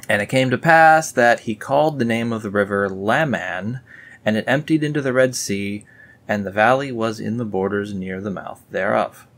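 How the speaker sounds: solemn verse reading; scripture reading. Acted. Reading the river verse to viewers, solemn. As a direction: read the river verse grandly.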